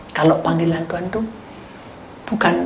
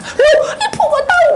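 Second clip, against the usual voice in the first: very high, loud, laughing squeal; child delighted that the counsellor knows; amazed child; 7 dB louder than usual. Retold or imitated. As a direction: shriek with happy surprise.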